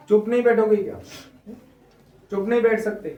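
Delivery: scolding. Shown as a demonstration. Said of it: "फटकारा जा रहा है".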